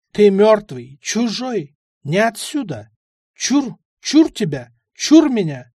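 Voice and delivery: ward off a ghost in growing panic; spooked old man. Acted.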